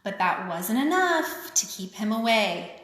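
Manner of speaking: sing-song picture book reading; lilting read-aloud for kids; story reading. A narrator's reading. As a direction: read it like a rhyming children's book. Reads rhyming picture book aloud.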